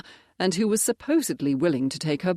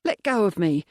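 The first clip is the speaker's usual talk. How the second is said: frightened protest; 4 semitones higher, 4 dB louder than usual. Acted. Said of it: "Agnes gasped as Bert grabbed".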